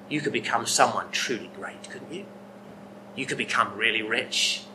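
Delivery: a hint of a tempting devil, hushed in places; lightly voiced devil, murmuring temptations to John; devil whispering. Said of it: "the devil have been whispering thoughts".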